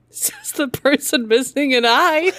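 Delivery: slow, laughing dig; mock the driver through laughter; laughing sarcasm. Real, not acted. Sarcastic quip about driver.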